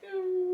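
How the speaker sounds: high-pitched whimper, imitating someone crying; put-on crying moan; mock crying. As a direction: fake a little high sob. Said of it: "she goes from crying to laughing".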